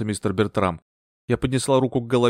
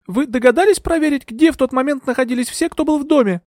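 high, louder sharp question; 14 semitones higher, 4 dB louder than usual. A narrator's reading. Euphemia sharply challenges Bertram about the household. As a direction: cut him with the question. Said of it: "резко спросила я".

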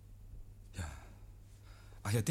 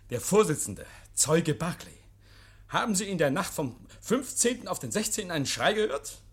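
spöttischer Richter; 5 semitones higher, 3 dB louder than usual. Acted. Oak spielt den Gerichtsvorsitzenden.

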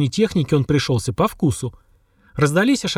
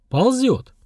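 a higher, urgent half-voiced call; hushed exclamation; 9 semitones higher than usual. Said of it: "негромко воскликнул". (негромко, но взволнованно воскликнуть, заметив бойца)

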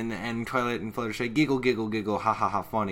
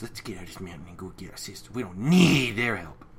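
gruff angry. Retold or imitated. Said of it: "angry face".

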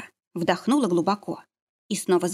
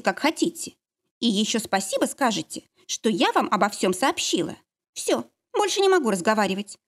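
defiant and cold; 3 semitones higher than usual. Acted. Lara defiant, ends call.

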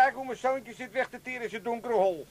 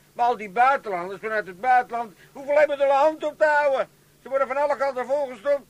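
louder grumbling rant; indignant rant; 5 dB louder than usual. Acted. Father ranting at the family about handouts, indignant. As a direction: work yourself up about it.

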